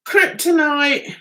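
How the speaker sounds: "Kryptonite" spelled out slowly; slow deliberate reading. Shown as a demonstration. Reading the lock brand aloud, slow.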